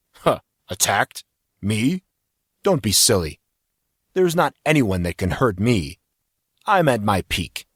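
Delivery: heavy musky man. Acted. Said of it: "heavy and musky".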